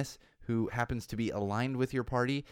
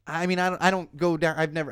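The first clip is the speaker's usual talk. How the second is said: usual speaking voice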